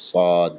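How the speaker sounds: সদ with air from the tongue sides, no whistle; heavy unwhistled সদ; Arabic sad demo. Shown as a demonstration. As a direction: push সদ out without a hiss. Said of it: "কোনো রকম সিটি কাটবে না".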